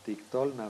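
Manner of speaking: "Tictolna" accented on the middle syllable; "Tictolna" said as tik-TOL-na; stress on O. Shown as a demonstration. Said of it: "el acento está aquí en la O".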